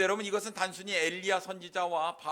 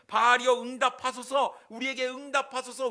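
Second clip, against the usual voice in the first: high, pleading cry to a god; 4 semitones higher, 4 dB louder than usual. Acted. Prophets begging Baal to answer since morning, crying out. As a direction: call out insistently, pitched up, first word loudest. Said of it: "계속해서 부르짖고 있는데".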